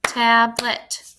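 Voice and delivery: "Tablet" clapped out in two beats; "Tablet" with a small break between syllables; split into syllables. Shown as a demonstration. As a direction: say "Tablet" as tab, then let. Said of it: "two syllables".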